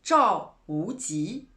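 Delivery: "Zhao Wuji" said slowly and carefully, each syllable in Chinese tones; slow Chinese name. Shown as a demonstration. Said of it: "le peintre chinois".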